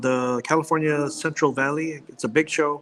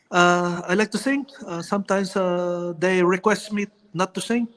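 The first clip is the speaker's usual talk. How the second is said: Manny Pacquiao impression; 3 semitones higher than usual. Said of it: "you gotta do the Filipino, uh, Manny Pacquiao, uh, impersonation".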